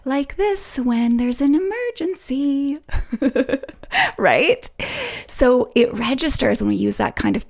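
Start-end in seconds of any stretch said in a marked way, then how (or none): 0.0-2.8 slow, higher sing-song lilt; drawn-out, absurdly carefree tune; playfully melodic. Shown as a demonstration. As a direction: stretch "emergency" out in a high, swooping melody. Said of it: "we don't speak like this".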